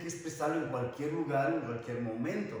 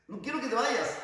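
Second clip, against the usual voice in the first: acted plea; 8 semitones higher, 4 dB louder than usual. Acted plea to departing friends.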